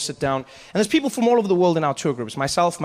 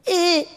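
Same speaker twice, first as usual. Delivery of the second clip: much higher, louder squeezed eh; strained grunt; 12 semitones higher, 4 dB louder than usual. Retold or imitated. Performer squeezed by the python, much higher strained eh. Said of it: "he'd make a sound".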